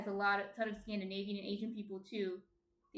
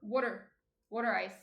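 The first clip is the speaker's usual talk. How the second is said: "Water" said as "wooder", Jersey style; Jersey "Water ice", rounded "wooder"; Jersey accent; 4 dB louder than usual. Shown as a demonstration. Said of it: "watermelon is a good one".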